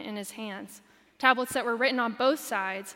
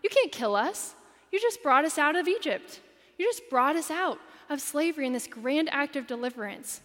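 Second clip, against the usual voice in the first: higher, louder urgent plea to God; pleading Moses; 4 semitones higher, 4 dB louder than usual. Retold or imitated. Pastor voicing Moses as he pleads urgently with God. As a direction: press God like an exasperated advocate. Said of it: "He's telling God, like".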